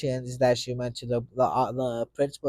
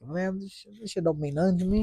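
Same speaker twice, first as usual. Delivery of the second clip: mock tough kid; 6 semitones higher, 3 dB quieter than usual. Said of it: "I was trying to, you know, like".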